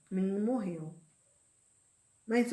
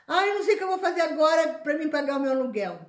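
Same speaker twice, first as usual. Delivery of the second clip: higher, louder, fast worried whine; mock complaint; 7 semitones higher, 7 dB louder, faster than usual. Preacher mimicking a worried believer's lament, fast and high. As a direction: rush it out like a fretful complainer.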